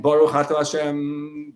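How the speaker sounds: slow, deliberate Baruch Atah Hashem; slow fervent blessing. Shown as a demonstration. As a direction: savor each word of Baruch. Repeating blessing as meditation.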